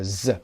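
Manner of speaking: ز buzzed long and voiced; isolated z sound. Shown as a demonstration. Teacher demonstrates the z in used. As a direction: hold a buzzing ز.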